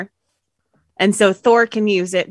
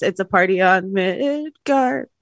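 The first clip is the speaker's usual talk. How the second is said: imitating a singer; slower than usual. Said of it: "You hear a singer".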